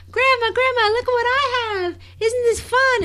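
put-on high little-girl voice, eager; a six-year-old showing off to grandma; childlike voice. Small girl excitedly showing grandma a toy, high voice. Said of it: "I'd be like".

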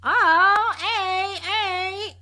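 a hint of an actress breaking character; out-of-character mock greeting. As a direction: drop the role and just say hey. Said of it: "like, out of character".

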